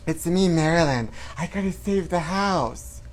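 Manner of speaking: lightly put-on starlet voice; Marilyn Monroe. Playing Marilyn pleading for her house, mock starlet voice. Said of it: "Oh, I'm Marilyn Monroe".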